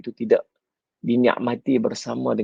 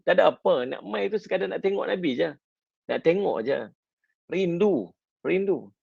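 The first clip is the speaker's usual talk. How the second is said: voiced longing; 6 semitones higher than usual. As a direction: sigh out the missing. Abu Bakar voiced, longing for Prophet.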